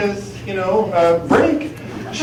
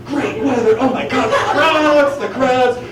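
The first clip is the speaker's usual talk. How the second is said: fake casual chatter; 7 semitones higher, 4 dB louder than usual. Bluffing small talk as French.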